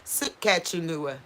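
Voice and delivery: slow "Saskatchewan", su-katch-in-uh; careful pronunciation. Shown as a demonstration. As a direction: work through "Saskatchewan" slowly. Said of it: "Sis-, Ca".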